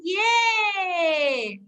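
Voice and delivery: long drawn-out celebrating yay; excited cheer. Pretend. Teacher celebrating as the children hit the moles, excited cheer. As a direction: cheer and stretch it out. Cheering after hitting them all.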